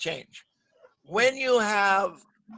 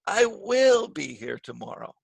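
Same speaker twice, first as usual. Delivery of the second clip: "will" stretched and stressed; emphatic "will"; 3 semitones higher than usual. Shown as a demonstration. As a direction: insist on "will". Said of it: "but I emphasize the will".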